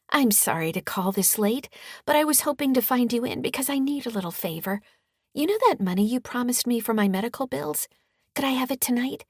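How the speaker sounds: high, lilting sweet-talk; sing-song voice. Acted. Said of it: "I say in a sing-song voice".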